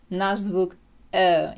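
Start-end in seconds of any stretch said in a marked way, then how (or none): 1.1-1.5 put-on «е» held long as in girl; long relaxed «е», loud and clear; vowel of girl. Shown as a demonstration. Teacher models the American vowel, long sound of girl. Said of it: "як в слові girl".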